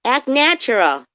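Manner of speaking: high, loud goofy cartoon voice; hammed-up high cartoon whisper-turned-yell; cartoon starfish advice. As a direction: bark it like a clueless cartoon buddy. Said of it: "And he goes".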